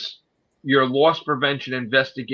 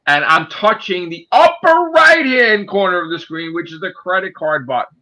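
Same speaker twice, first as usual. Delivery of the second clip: raised voice, higher and louder; loud emphatic; 4 semitones higher, 4 dB louder than usual. Real, not acted. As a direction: insist on the upper right-hand corner. Heated explanation, shouting.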